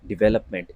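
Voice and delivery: "डेवलपमेंट" as di-VEL-up-ment; correct pronunciation. Shown as a demonstration. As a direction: clear "ve" in the second syllable of "डेवलपमेंट". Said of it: "इसका सही उच्चारण डेवलपमेंट है".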